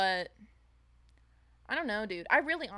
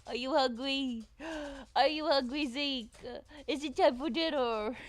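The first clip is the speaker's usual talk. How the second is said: louder, higher sing-song to the dog; excited pet talk; 5 semitones higher, 3 dB louder than usual. Real, not acted. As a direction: hype the dog up for dinner.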